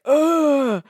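high, triumphant villain crowing; cat-witch gloating over her beaten foe. Acted. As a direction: crow over him like a cackling witch. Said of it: "And he's like".

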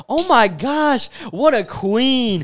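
slow, drawn-out mock adoration; gushing fan girl. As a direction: lightly mimic girls fawning over an idol. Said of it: "you know, girls".

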